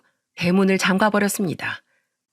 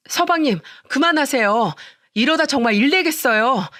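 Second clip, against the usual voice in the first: higher, urgent begging; desperate plea; 6 semitones higher than usual. Acted. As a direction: cry out to stop him, pitch jumping up. Narrator begs brother-in-law to stop. (시동생을 말리며 높은 목소리로 다급하게 애원)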